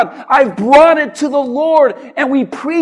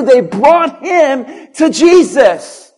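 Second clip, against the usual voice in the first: slow, over music; 3 dB louder, slower than usual. Shown as a demonstration. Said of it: "as I read that".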